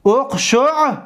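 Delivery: اقشعررن as uqshu'-rir-na, broken before the first r; unmerged r's. Shown as a demonstration. Teacher undoing the merger, اقشعررن with r's apart. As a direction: separate the two r's in اقشعررن.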